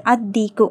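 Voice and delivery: "அத்தீக்கு" with doubled D and long ee, no L; careful teaching model of "அத்தீக்கு", L unheard; lam silent. Shown as a demonstration. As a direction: lean on the double D of "அத்தீக்கு", dropping L. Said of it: "லாம் உச்சரிக்கப்படக்கூடாது".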